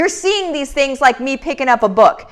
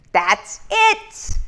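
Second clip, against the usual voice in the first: pitched way up and softer, almost a squeal; tiny high-pitched yes; squeaky high repeat; 11 semitones higher, 4 dB quieter than usual. Real, not acted.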